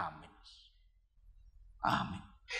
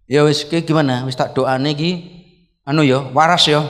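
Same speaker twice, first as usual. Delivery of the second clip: loud, matter-of-fact retold questioning; brisk loud check-up; 4 semitones lower, 6 dB louder than usual. Pastor asking the prayed-for patient if he is sane, loud and brisk. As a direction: speak up firmly to a patient.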